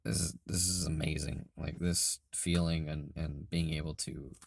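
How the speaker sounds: hoarse, breaking into whisper; losing voice. Real, not acted. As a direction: voice worn out and raspy. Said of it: "I'm sorry I'm losing my voice".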